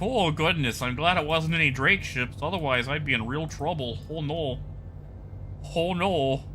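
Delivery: mock pearl-clutching Midwestern accent. Streamer joking about dodging Drake ships, in an overdone Midwestern accent. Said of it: "let me put on my, my, my accent".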